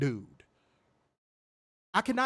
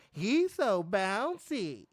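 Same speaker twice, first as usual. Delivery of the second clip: mock theme-song vocal; 2 semitones higher, much slower than usual. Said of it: "I gotta say".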